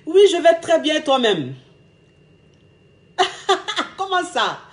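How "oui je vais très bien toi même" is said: light, carefree reply, higher at the start; airy casual answer; breezy and cheerful. Shown as a demonstration. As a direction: play it cool and happy on the phone. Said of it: "Tu dis allô".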